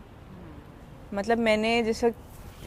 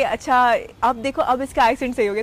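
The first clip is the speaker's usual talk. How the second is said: retold loud approval; 5 dB louder than usual. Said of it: "जिन लोगों ने कहा".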